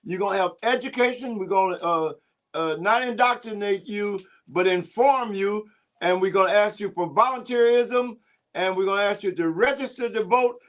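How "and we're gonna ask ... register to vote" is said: rally speech. Acted. Preacher rallying listeners to vote.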